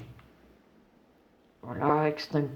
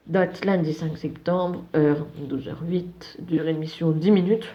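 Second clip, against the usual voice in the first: put-on German accent. Streamer reads the mission report in mock German accent. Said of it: "On va tester l'accent allemand".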